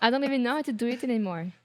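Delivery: quick words through a laugh; laughing, flustered. Real, not acted. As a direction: rush it out, laughing at yourself. Asked to thicken her accent.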